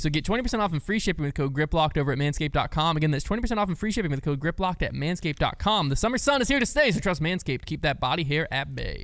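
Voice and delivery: upbeat podcast sponsor read; scripted sales patter with punched key words. Acted. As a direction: pitch the product with lively emphasis. Reads the sponsor ad.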